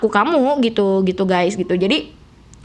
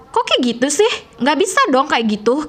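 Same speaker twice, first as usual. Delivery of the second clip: Aceh-style anger; 4 semitones higher than usual. Shown as a demonstration. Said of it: "udah bisa niru orang Aceh kalau marah".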